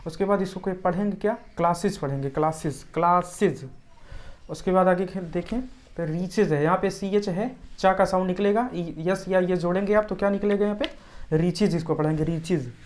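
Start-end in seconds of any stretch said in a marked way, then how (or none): 1.6-3.7 "क्लासेस" ending in a short iz. Shown as a demonstration. Teacher repeating the plural for learners, "क्लासेस" with an iz ending. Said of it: "उससे sound निकलेगी इज की". 11.3-12.7 "रीचेज" said reech-iz; IZ ending. Shown as a demonstration. Teacher showing how to read it, "रीचेज" with an iz ending. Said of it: "उससे sound निकलेगी इज की".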